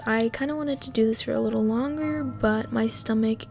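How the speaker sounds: raspy, worn-out smoker's voice; hoarse voice. Real, not acted. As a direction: talk through a tired, hoarse throat. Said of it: "my voice is sounding like a smoker".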